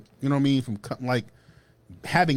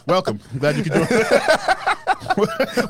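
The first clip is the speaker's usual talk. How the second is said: sarcastic welcome; 8 semitones higher, 4 dB louder, much slower than usual. Pretend. Mocking a late realization.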